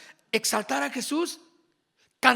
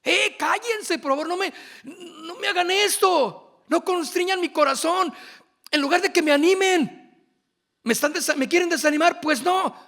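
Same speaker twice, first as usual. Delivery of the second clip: higher, exasperated plea to stop, then a laugh; Pablo hushing them; 5 semitones higher than usual. Acted. Pablo telling weeping friends to hush, higher exasperated pleading. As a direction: shush the crowd, half scolding, half begging. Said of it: "les dijo Pablo".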